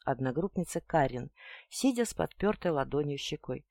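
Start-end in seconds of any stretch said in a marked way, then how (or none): none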